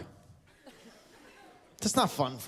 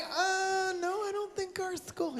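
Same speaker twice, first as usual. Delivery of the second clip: mock denial; 12 semitones higher, 7 dB quieter, slower than usual. Mocking audience member's denial.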